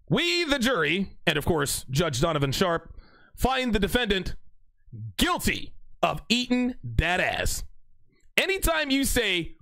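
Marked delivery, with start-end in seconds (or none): 0.1-7.6 mock verdict. Reads mock jury verdict.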